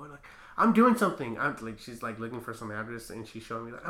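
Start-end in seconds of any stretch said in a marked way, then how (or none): 0.6-1.4 mock-indignant, higher-pitched retort; irritated brush-off. Busy driver to security guard, mock irritated. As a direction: imitate a driver brushing someone off.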